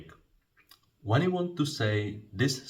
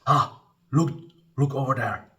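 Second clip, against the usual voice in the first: high, loud "look, look over there"; urgent calling out; 6 semitones higher, 7 dB louder than usual. Shown as a demonstration. Teacher voicing a friend's urgent call to look, loud and high. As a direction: grab their attention, pointing. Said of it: "it is".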